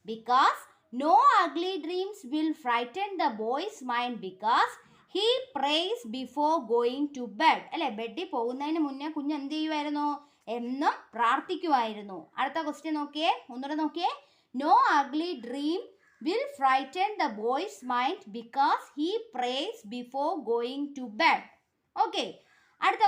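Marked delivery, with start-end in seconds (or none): 1.0-7.6 very slow, word by word for pupils; teacher dictating to a class; slow dictation. Shown as a demonstration. Teacher reads answer slowly. 14.5-21.4 very slow, word by word for pupils; teacher dictating to a class; slow dictation. Shown as a demonstration. Teacher reads answer slowly.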